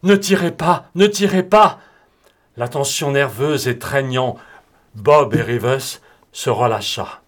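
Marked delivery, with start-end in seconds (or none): 0.0-1.8 high, urgent plea; almost pleading. A narrator's reading. Broom gives in before the last bullet, almost pleading. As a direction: beg him to hold fire, pitch raised. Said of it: "presque suppliante".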